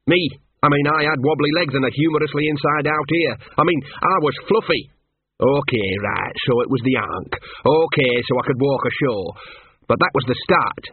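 a hint of a put-upon mongrel telling his hard-luck story; understated hard-done-by talking dog; lightly voiced talking dog, aggrieved. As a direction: lightly play a small dog with a grievance.

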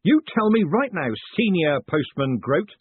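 loud, high, commanding; snapped order. Acted. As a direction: order him by rank, slowing on the title. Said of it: "he snapped".

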